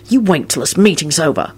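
restrained menace, hissed; venomous Harry. A narrator's reading. Harry warns Neville of payback, hissing. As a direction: promise payback, held in. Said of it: "Harry hissed venomously".

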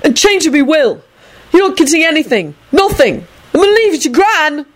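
very high, indignant calling; petulant bellowing. A narrator's reading. Neville threatens his toad with disinheritance, petulant bellow.

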